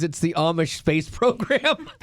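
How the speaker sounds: laughing quote. Retold or imitated. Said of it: "Letterman's joke on it was".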